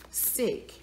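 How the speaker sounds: a breathy, soft judgment of disgust; whispered disgust, under the breath. Real, not acted. Disgust at the killings.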